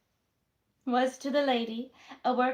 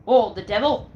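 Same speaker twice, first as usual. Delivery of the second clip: loud exclamation; 10 dB louder than usual. Acted. Jack cursing as the landlady gives chase, loud. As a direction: burst out with a shout. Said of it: "said Jack".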